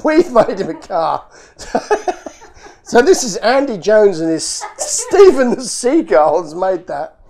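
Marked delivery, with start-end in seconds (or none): 0.0-2.2 the line again through a laugh; delighted, laughing as he repeats it. Real, not acted. Repeating the fan's line back to himself, laughing.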